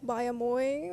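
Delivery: Baie mooi said with an American accent, Afrikaans vowels flattened. Real, not acted. Guest offering a basic Afrikaans phrase, American accent. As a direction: say Baie mooi the way an American would, not a native speaker. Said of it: "that sounds very American".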